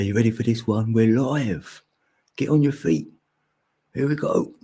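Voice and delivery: lightly played live-show announcer, rising as it goes. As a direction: rouse the crowd for a live show. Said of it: "I'll be your announcer".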